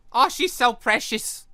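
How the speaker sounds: usual speaking voice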